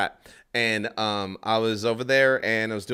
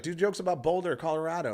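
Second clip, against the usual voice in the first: heckling lady; 7 semitones higher than usual. Retold or imitated. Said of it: "she was like".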